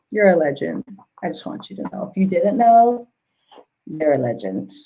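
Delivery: real, low-pitched, choked-up sincerity; holding back tears. Real, not acted. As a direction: say it while trying not to cry. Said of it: "I'm really just trying not to cry".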